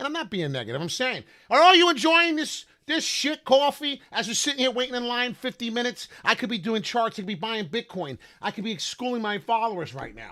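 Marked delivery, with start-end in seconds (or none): 1.5-4.0 loud, high-pitched hollering yell. Retelling yelling out the window at Starbucks: imitating own screaming. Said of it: "I'm screaming out the window".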